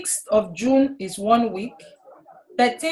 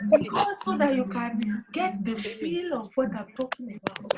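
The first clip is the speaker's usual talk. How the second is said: whispering; 5 dB quieter than usual. Shown as a demonstration. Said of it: "Why are you whispering".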